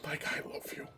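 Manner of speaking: barely voiced, reverent whisper; whispered quote. Fan repeating Ilya's line to herself, hushed whisper. Re-quoting the tearful scene to self.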